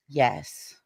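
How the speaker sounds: low, eerie spirit reply; weird ghostly yes. Retold or imitated. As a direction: imitate a ghost answering in a strange tone. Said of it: "the tone of the yes was so weird".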